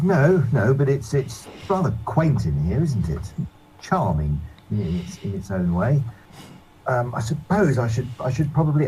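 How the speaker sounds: fussy gentleman voice. Acted. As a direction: sniff at the tavern, politely.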